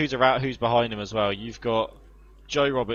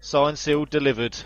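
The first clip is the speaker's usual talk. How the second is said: excited commentator; 4 semitones higher than usual. Acted. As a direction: celebrate the pass. Live race commentary after the pass.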